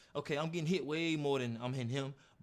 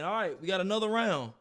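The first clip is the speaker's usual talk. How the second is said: coach calling out; 4 semitones higher, 5 dB louder than usual. Retold or imitated.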